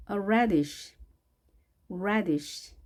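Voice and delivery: "radish" with a clear "a" as in cat; '애' 발음 살려서. Shown as a demonstration. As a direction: bring out the first vowel of "radish". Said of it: "에 발음 살려서 해주시고요". ("radish"의 '애' 소리를 살려서)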